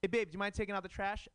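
a hint of a bored sitcom wife. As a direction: toss the chore at him as you leave. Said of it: "she's gonna go".

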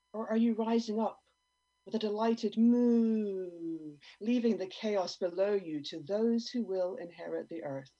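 building rapture. Acted. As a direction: swell up with delight, rising. Poem climax, cow rising.

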